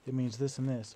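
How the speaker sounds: mildly excited mimicry of someone eager; lightly mock an eager, excited explainer; imitated excitement. Aunt turning to her boyfriend to translate Spanish, imitated excitement. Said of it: "in a really excited voice".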